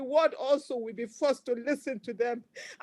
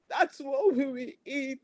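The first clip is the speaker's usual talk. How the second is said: crying. Real, not acted. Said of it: "I'm not afraid to cry".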